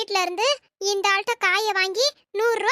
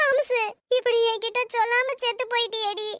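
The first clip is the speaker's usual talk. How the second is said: hammed-up wailing lament, rising higher; fake funeral wail; 3 semitones higher than usual. Woman fakes mourning her friend for a free auto ride, mock wailing. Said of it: "ஒப்பாரி வச்சுக்கிட்டு இருக்கேன்".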